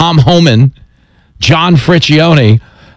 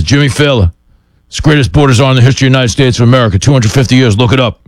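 rushed, gravelly boastful caller; Tom Homan; much faster than usual. Retold or imitated. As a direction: imitate a ridiculous gravelly voice. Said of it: "an impersonation of your gravelly, ridiculous voice".

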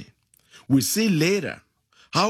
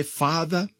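led prayer; 2 semitones lower than usual. Shown as a demonstration.

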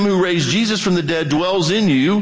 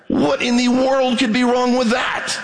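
preacher's shout; 5 semitones higher than usual. Real, not acted. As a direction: shout the challenge to the room. Preacher's rhetorical challenge.

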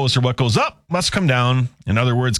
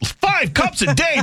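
laughing, higher and slow; 12 semitones higher, slower than usual. Real, not acted. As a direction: laugh through the correction. Laughing correction.

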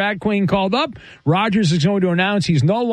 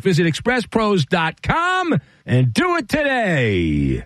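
punchy, upbeat sponsor pitch; host's commercial read, stretched sign-off; radio ad read; 2 semitones higher than usual. Acted. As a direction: sell it with lifted key phrases. Host reads a sponsor ad.

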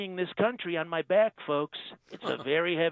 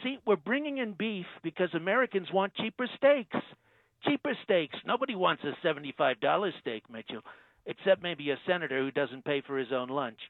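Trump impression. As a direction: play the president, smug and self-assured. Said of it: "Donald Trump".

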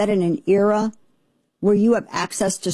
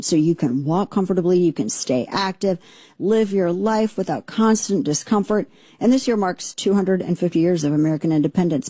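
ad read. Acted. Host reads sponsor ad.

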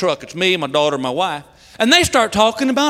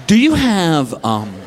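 low, slow, long awkward pauses; mortified halting request; 13 semitones lower, 6 dB quieter, much slower than usual. Acted. Dad asking drugstore woman for pads, mortified and halting. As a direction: force each word out in embarrassment.

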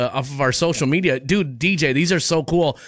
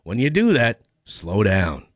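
consultant's slow-down advice; 4 semitones lower than usual. Retold or imitated. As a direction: ease off into a slow, low "slow down". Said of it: "our consultant has told us".

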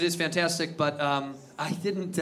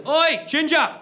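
loud, high mock British yell; imitated British heckler shouting; aggressive British call-out; 10 semitones higher, 6 dB louder, slower than usual. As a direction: holler at a stranger in a British accent. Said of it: "pipes up and smacks me ... pretty aggressively".

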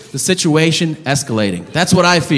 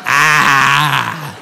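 open-mouth breathing; 3 semitones lower than usual. Retold or imitated. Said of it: "just breathing open mouth style".

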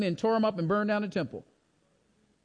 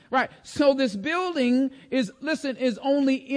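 raised, forceful preacher's voice; preaching; 5 semitones higher, 5 dB louder than usual. Acted. Preacher voicing a prayer about God filling all things, preaching. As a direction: preach it high and strong.

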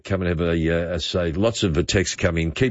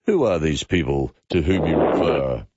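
lightly put-on prim, stern British stateswoman; a brief mock of a haughty prime minister; Margaret Thatcher voice; 3 semitones lower than usual. Host rebuffing a caller with a lightly imitated haughty politician. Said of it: "As Margaret Thatcher would have said".

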